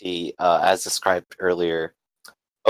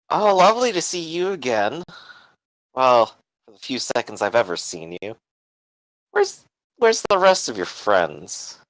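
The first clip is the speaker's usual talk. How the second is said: higher, smug mock-sweet greeting; smirking villainess; 4 semitones higher than usual. Lillian addressing Adam from atop her gantry, smirking. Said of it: "smirks over at him".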